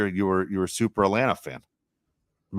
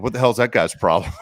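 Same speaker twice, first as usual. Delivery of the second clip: mock-indignant, a bit louder; upset fan; 3 semitones higher, 5 dB louder than usual. Fan at home grumbling at a player, mock upset. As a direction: complain like an armchair critic. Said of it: "you get all upset".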